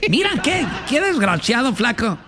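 high, laughing mock reproach; laughing mock scold. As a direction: scold while breaking up laughing.

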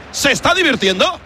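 ordinary talk

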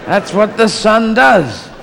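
stern God ordering his son; James Mason. Acted. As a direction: lay down the law in a grand actor's voice. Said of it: "do the James Mason".

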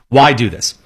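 normal talking voice

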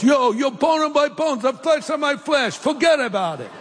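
hammed-up New York tough guy; East Coast accent. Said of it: "Or East Coast".

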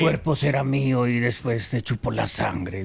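Drácula. Acted. Host resumes the joke as Dracula threatening a drunk, slow. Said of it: "dijo Drácula".

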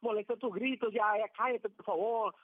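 mildly acted rebuke from an annoyed crowd; mock scolding. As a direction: imitate people telling a shouter to hush, without shouting. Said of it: "la gente le reprendía". (regaño fingido, leve)

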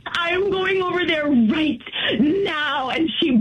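tearful, choked threat to go over there; sobbing through a warning; crying threat. Real, not acted. Wife on the phone threatening her husband, crying and angry.

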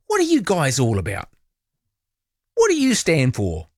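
silly squeaky put-on voice. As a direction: squeak out the questions. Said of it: "Why am I talking in a squeaky voice?".

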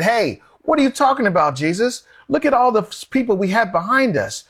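high, pleading protest as Peter; an eager disciple pushing back, pitched high. Acted. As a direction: raise the pitch and argue him out of dying. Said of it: "And Peter stopped him and said".

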